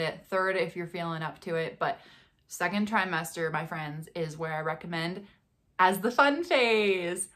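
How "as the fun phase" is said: slow whispered "fun phase"; confiding whisper. Real, not acted. Telling viewers the best trimester, slow whisper. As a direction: lean in and whisper the tip.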